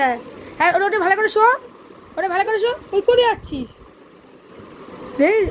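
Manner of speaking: sarcastic. Real, not acted. Sarcastically tells son to cry lying down.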